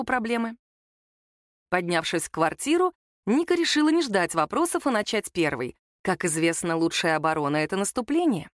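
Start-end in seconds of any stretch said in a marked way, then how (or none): none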